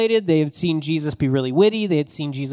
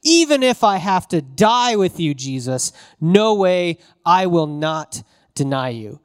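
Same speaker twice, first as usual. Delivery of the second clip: ratcheted up; 2 semitones higher, 4 dB louder than usual. Retold or imitated. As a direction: push the vow up hard, near a shout. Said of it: "Peter has ratcheted it up".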